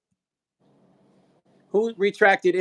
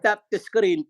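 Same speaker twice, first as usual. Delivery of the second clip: raised, coaxing "tap the screen"; playful plea; 4 semitones higher than usual. Real, not acted. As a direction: coax viewers to tap the screen.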